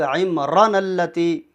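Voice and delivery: "عمران" with a short raa; imitating common mistake. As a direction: recite "عمران اللتی" without stretching the raa. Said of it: "کیسے پڑھتے ہیں لوگ".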